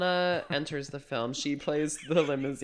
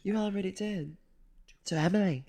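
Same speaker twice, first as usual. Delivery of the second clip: higher, pointed, not so subtle; pointed line delivery; 5 semitones higher than usual. Retold or imitated. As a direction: lean hard on To Emily. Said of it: "How does she say it?".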